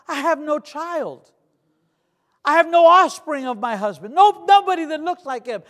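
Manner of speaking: hammed-up preacher's lament, high and loud; anguished widow's plea. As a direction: cry out the widow's questions in sermon style. Acts out widow's anguished questioning.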